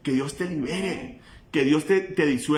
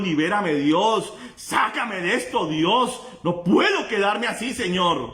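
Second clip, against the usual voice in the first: raised pleading prayer; crying out to God; 5 semitones higher than usual. Shown as a demonstration. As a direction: cry out, begging for release. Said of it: "levantar tu voz y a dar un clamor".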